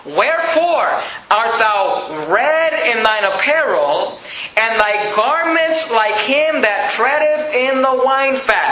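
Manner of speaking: slow scripture reading. Acted. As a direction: draw the verse out slowly and solemnly. Reads verse two, then repeats.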